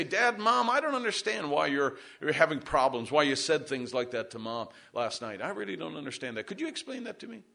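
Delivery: lightly voiced puzzled child, softly; imagined child's plea. Child asking parents about their quarrel, lightly acted soft plea.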